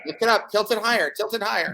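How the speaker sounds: high, pushy drinking-game coaching; frat bro. Real, not acted. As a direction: urge him to tilt the bottle up. Coaching friend chugging.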